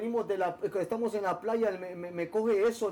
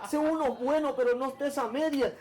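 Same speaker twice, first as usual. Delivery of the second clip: lightly voiced mother, higher, with a laugh; a hint of mom lecturing her son, amused; voicing his mother; 4 semitones higher than usual. Man quoting his mother's advice to him, higher and amused. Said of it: "mi mamá siempre me decía".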